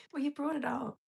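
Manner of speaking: "Well, you brought it up" whispered, no voice; a sly whispered comeback. Real, not acted.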